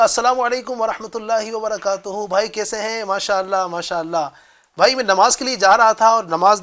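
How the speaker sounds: kind, gentle, polite invitation; loving invitation. Retold or imitated. Man politely inviting the tree-climber to prayer, gentle and loving. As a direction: invite him sweetly to come pray. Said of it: "اتنی پیار بھرے انداز میں".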